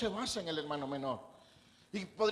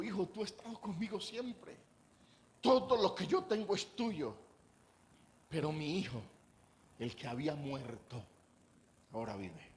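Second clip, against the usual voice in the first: tender father; 4 semitones lower than usual. Acted. Father confronts older son gently.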